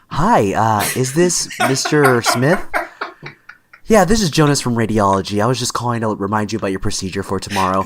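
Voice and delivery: lightly put-on polite phone manner; mock professional reminder call to a patient; white person voice. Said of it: "I had a white person voice when I was working at the hospital".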